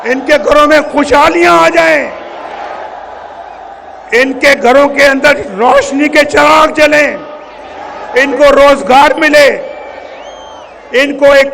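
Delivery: forceful, ringing wishes in separate bursts; impassioned rally oratory. Real, not acted. Leader telling the crowd his wishes for their homes, impassioned oratory. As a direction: build a list of hopes for a crowd.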